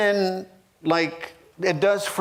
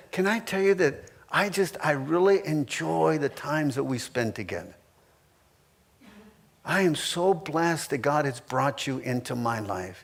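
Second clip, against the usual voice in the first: softer, lower, sincere and gentle; tender words to spouse; 3 semitones lower, 5 dB quieter than usual. Pretend. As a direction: speak softly as to a beloved wife. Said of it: "It's being kind that says".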